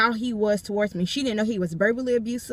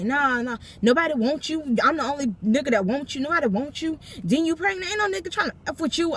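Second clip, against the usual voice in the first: mocking boyfriend; 4 semitones higher than usual. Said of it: "And he's like".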